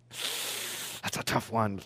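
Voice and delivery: soft, slow, near whisper; slow it down to a hush. Real, not acted. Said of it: "sermon list of hurts".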